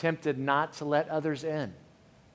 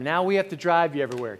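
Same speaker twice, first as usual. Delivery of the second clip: quick, louder sarcastic dig at the son; sarcastic jab; 2 semitones higher, 4 dB louder, faster than usual. Retold or imitated. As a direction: needle him with a mock complaint. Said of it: "so it's just little jabs".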